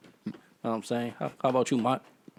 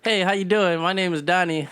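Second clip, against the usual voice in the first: higher-pitched, proper "white guy" voice; proper phone voice; 4 semitones higher than usual. Retold or imitated. Introducing himself on the phone, proper phone voice. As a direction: put on a neat interview voice. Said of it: "He speaks very proper".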